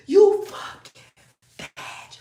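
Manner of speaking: high, loud mock outburst at him; retold cussing out. Cussing out the rapper, high and loud. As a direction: shriek the insult like she did that night. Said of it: "I was like".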